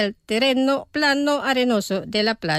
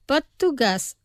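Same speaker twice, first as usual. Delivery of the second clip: slow, careful model pronunciation; pronunciación despacio. Shown as a demonstration. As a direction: say it slowly for learners to repeat. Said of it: "Los pronunciaré despacio". (pronunciado despacio, para repetir)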